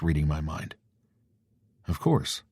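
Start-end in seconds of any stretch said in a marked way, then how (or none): 1.9-2.4 a high, rising smiling "Of course". A narrator's reading. Jared teasing Devin in bed, smiling and high. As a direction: toss "Of course" up high with a grin. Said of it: "I say with a smile".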